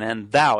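thou leaned on; stress on thou. Shown as a demonstration. Preacher pointing fathers to the word, stress on thou. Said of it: "emphasis on".

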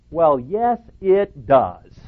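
pointed, emphatic sarcastic rebuttal. Real, not acted. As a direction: push back hard with a sarcastic edge. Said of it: "Sarcastic or not".

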